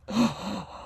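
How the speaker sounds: sharp mock-swooning gasp; acted gasp. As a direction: gasp as if just kissed. Acting out radio kiss scene.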